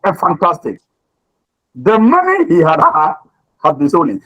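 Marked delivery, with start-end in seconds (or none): 1.7-4.2 second had stressed, slight break after. Shown as a demonstration. Teacher showing students which had to stress. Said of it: "So you have to stress on a".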